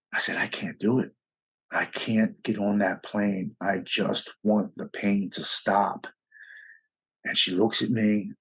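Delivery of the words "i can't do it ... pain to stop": retold despair, slowed and dropped a little; slow broken despair. Man on the bucket telling his wife he can't go, slow and defeated. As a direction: let each word come out slow and defeated.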